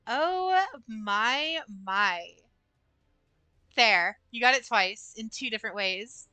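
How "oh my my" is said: high-pitched, breathy-free "Oh" leaping up, then "my, my" dropping back down; high sultry oh my. Pretend. Streamer performing for chat, squeaking the Oh high. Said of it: "It's not soft".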